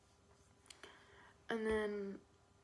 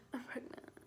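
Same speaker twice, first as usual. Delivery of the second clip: small, higher, softer voice; hushed confession; 4 semitones higher, 5 dB quieter than usual. Retold or imitated. Telling little sister the secret, hushed confession. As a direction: confess it softly, pitched up.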